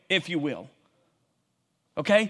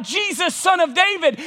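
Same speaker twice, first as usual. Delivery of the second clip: raised, higher pleading call; crying out; 6 semitones higher than usual. Acted. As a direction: call out to him from the roadside. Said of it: "he cried out".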